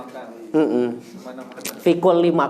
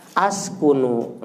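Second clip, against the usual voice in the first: "Askunu" said slowly, the opening A marked; slow down and lean on the A of "Askunu"; stressed initial A; 4 semitones lower, much slower than usual. Shown as a demonstration. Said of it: "tanya ganti jadi A".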